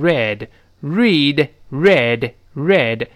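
"read" said slowly, past form as red beside present reed; slow teacher's demo of "read" vowels; past-tense read. Shown as a demonstration. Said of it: "但读的是读成read".

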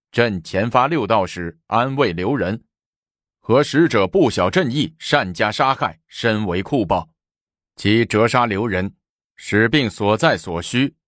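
formal, projected proclamation; reading a decree. A narrator's reading. Official reads the imperial edict aloud, formal proclamation. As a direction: announce it phrase by phrase, officially. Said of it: "展开手中的圣旨念道".

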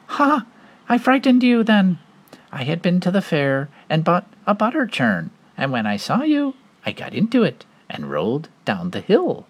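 high gloating pig; little pig voice. Acted. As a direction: crow over the wolf.

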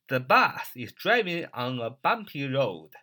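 The bus is driving on a bumpy road read out slowly for learners to copy; slow model reading. Shown as a demonstration. Teacher reading the example sentence slowly for students. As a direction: spell it out at a slow teaching pace. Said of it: "你要说".

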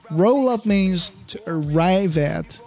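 slow, spaced-out "Roll up means to arrive at"; slow teaching demo. Shown as a demonstration. Host teaching listeners a new phrase, slow and deliberate. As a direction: read it out slowly for learners. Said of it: "我们看一下这一期的节目要点".

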